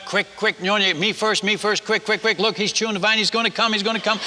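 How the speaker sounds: mock panic in quick, repeated bursts, without shouting; urgent retold yelling. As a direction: imitate villagers urgently begging to go first. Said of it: "they would yell at my wife".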